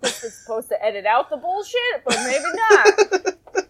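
amused, voice rising through laughter; laughing. Real, not acted. Joking aside while laughing.

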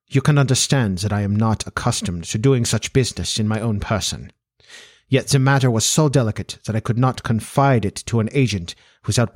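put-on formal Central European-accented monarch; measured, accented aristocratic explanation; Bohemian king. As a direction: confide it as a proud foreign king. Voices the king as a character.

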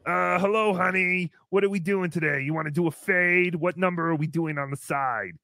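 low-key, level barber patter; hairdresser act. Acted. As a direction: play a chatty hairdresser greeting a client. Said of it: "You should be like".

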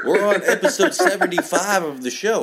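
laughing through a friendly brush-off; laughing retort. Retold or imitated. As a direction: chuckle it out like telling off a buddy. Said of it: "I was like".

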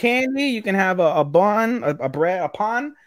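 lightly voiced eager girl offering bread; high girlish voice. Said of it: "they're like".

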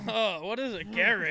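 garage said as GARE-idge in a mock British accent. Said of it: "That's what British people say".

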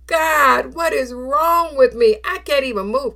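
mother calling out to God, exhausted and frustrated; desperate cry. Retold or imitated.

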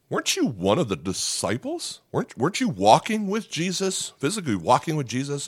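lightly acted nosy woman, pitch climbing; a hint of a woman pressing her question; accusing questioner. Acting woman questioning Peter.

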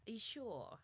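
breathy whispered tease, laughing; teasing whisper. Real, not acted. Teasing her co-host whether she really wants her to go first, whispered. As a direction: whisper it playfully at your co-host.

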